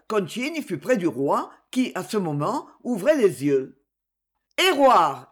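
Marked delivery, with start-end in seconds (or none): 4.6-5.2 loud, high shout for help; yelled call. A narrator's reading. Marshal yelling for the doctor beside the fainting king. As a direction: bellow the doctor's name. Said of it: "hurla le maréchal".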